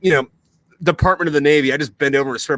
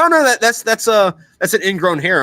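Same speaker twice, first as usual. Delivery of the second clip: put-on girlfriend voice; 6 semitones higher, 5 dB louder than usual. Girlfriend quoted in a story.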